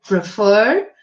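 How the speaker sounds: "prefer" with the last syllable stressed; teacher's model of "prefer", weight on its final syllable. Shown as a demonstration. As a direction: say "prefer" leaning on the second syllable, fer. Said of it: "como a sílaba tônica mais forte".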